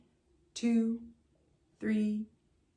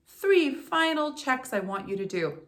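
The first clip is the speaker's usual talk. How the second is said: ordinary delivery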